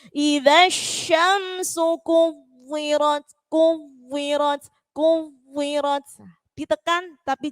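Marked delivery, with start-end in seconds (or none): 0.1-6.0 kuwirat chanted slowly, the final t pressed but not cut off; pressed but unbroken. Shown as a demonstration. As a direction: hold kuwirat slow and press the ending without a break. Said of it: "Ditekan tetapi tidak sampai terputus". (kuwirat dibaca pelan, ditekan tapi tidak terputus)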